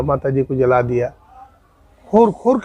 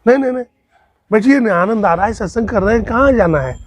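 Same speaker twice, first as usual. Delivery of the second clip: higher-pitched acted protest; insistent coaxing; 5 semitones higher than usual. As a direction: coax him to stay seated. Acted refusal, urging him to stay. (मनाते हुए आग्रह)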